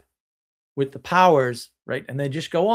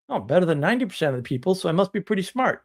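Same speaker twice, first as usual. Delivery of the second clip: mocking smugness; 3 semitones higher, faster than usual. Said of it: "mocking smug reasoning".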